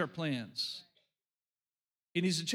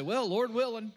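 mimicking flippant phrase; 3 semitones higher than usual. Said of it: "they'd just say".

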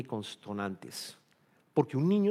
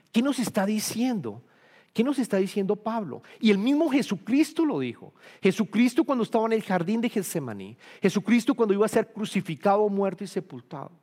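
much higher, louder fervent preaching; preacher building to a climax before the church; preaching at full force; 8 semitones higher, 5 dB louder than usual. Acted. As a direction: drive it home to the congregation, rising.

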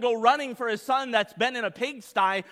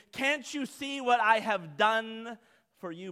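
slow, pleading self-justification; grotesque self-righteousness. Acted. Son begging father to notice his work, grotesque self-righteousness. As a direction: drag it out, demanding credit. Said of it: "Can you feel the grotesqueness of this?".

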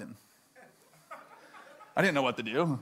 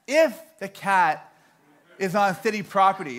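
mock-patient clerk, leaning on "If"; deliberate repetition; 4 semitones higher, 5 dB louder than usual. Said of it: "She repeats again".

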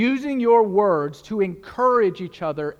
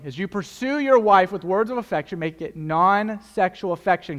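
slowly. Shown as a demonstration. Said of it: "I'll say that again slowly".

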